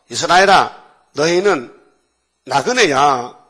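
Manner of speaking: loud proclaiming voice; God calling out to Israel; God's proclamation. Retold or imitated. (크게 선포하는 하나님 목소리)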